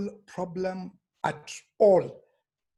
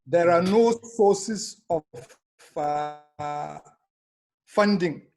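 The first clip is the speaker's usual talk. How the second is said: speaking up. Real, not acted. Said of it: "Am I not being heard?".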